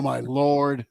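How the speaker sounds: usual speaking voice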